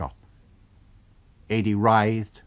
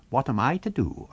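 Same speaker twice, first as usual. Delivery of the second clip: higher, mocking echo of the question; invisible man's cool echo; 6 semitones higher than usual. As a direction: throw his words back coldly. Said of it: "asked the invisible man".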